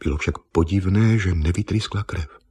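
usual speaking voice

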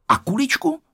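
put-on very high child's question; asking little boy. A narrator's reading. Honzík checking on his marble, little boy asking. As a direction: ask high, like a small boy. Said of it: "zeptal se Honzík".

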